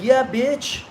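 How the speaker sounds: mock-tough reply to the critics; defiant retort. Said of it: "And I'm like".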